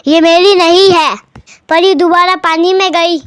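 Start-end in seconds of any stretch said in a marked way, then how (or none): 0.1-1.2 quick landlord reply. Acted. Greedy landlord quickly lies to the fairy, blurted in his put-on voice. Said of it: "और झट से बोला".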